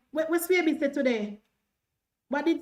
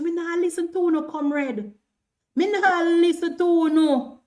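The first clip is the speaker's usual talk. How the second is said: defiant refusal; 5 semitones higher, 5 dB louder than usual. Real, not acted. Streamer refusing to listen to comrades, defiant. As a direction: stretch it out, refusing to budge.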